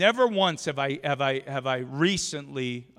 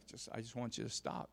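retold nervousness; 5 semitones lower, 16 dB quieter than usual. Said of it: "I'm getting nervous 'cause she's crying".

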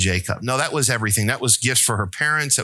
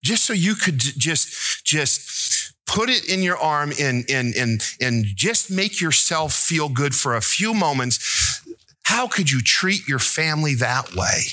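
retold anger; 3 semitones higher than usual. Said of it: "I was so angry at him".

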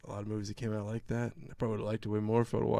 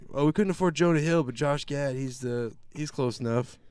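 mock studio exec; 4 semitones higher, 5 dB louder than usual. Mocking the studio's casting logic.

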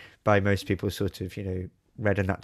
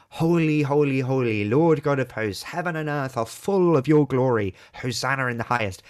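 louder, rising Holy holy holy with joy; exultant proclamation; 3 semitones higher, 3 dB louder than usual. Shown as a demonstration. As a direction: proclaim Holy like a great hymn of heaven. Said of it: "how do we read it most of the time".

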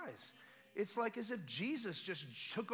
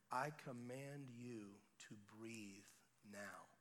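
commanding; 9 semitones lower, 11 dB quieter, much slower than usual. Retold or imitated. Commanding healing prayer.

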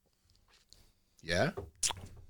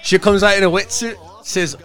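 put-on Scottish accent; 4 semitones higher than usual. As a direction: joke told in a lilting Scottish brogue. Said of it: "You wanna hear my Scottish joke".

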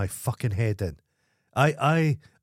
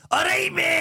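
high calling stranger. Retold or imitated. Squeaky Shoes hailing him across the street, high squeaky call.

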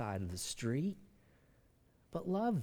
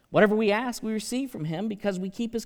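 forceful reading; 7 semitones higher, 7 dB louder, faster than usual. Real, not acted.

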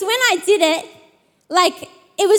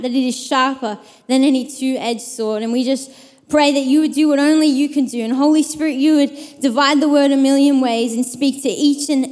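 low, even prayer voice; public prayer; 4 semitones lower than usual. Real, not acted. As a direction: lead the room in prayer, settling lower toward the amen. Leads an opening prayer.

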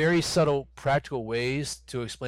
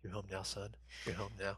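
quoting the angel; 2 semitones lower, 13 dB quieter than usual. Retold or imitated. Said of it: "He's like".

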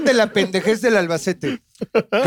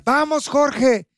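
drawn-out, higher-pitched cheer; mimicked cheering; 7 semitones higher, much slower than usual. Sofía rooting for Jorge beside her teammate, mimicked cheering. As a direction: call it out long and high.

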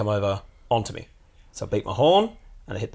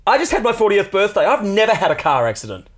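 shaken woman; 11 semitones higher, 9 dB louder than usual. Retold or imitated. Shaken woman quoted in story.

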